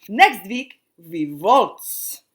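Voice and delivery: put-on loud call after departing kids. A narrator's reading. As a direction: call it out to them leaving. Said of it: "called after them".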